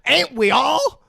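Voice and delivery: high laughing shout into the joke. Real, not acted. Friend laughing at the movie hobo's line. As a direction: crack up and toss off the line.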